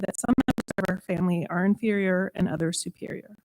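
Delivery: measured, earnest prayer reading; spoken prayer. Acted. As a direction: read a congregational prayer, each phrase starting firm. Leads a prayer meditation.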